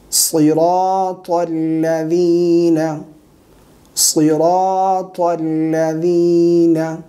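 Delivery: slow, sustained chanting; measured tajweed teaching recitation; Quran recitation. Shown as a demonstration. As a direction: recite with long drawn-out vowels.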